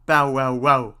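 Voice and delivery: loud barking woof; dog bark. Acted. Dog barks in story.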